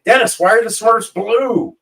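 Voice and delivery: high, loud frantic plea; panicked call in the middle of the night. Retold or imitated. To Dennis at three a.m., frantic and loud. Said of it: "I call Dennis all frantic".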